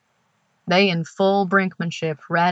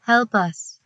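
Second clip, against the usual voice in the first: stiff synthesized voice, slightly raised; stilted voice; 4 semitones higher than usual. Acted. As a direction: speak like a halting voice synthesizer. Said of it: "Same stilted voice".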